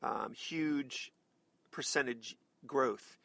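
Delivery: dull, halting imitation of a policy pitch; mock boring speech. Host imitating a candidate nobody will cover, yawn-inducing drone. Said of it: "everybody's gonna, gonna yawn".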